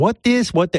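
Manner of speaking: high-pitched, confused effeminate voice. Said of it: "and Chinny, like".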